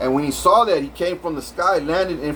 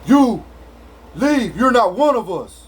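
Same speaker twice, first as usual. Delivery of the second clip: alien leader's command; 6 semitones higher, 3 dB louder than usual. Retold or imitated. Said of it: "He says".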